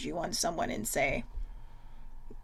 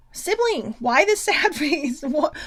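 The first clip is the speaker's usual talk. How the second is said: high, laughing teasing call; laughing tease; 6 semitones higher, 6 dB louder, slower than usual. Real, not acted. Teasing her sibling in the chat, laughing.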